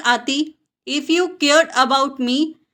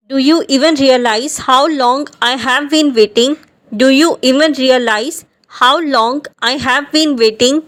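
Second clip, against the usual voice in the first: exasperated loud question; 6 dB louder than usual. Acted. Angry complaint example sentence.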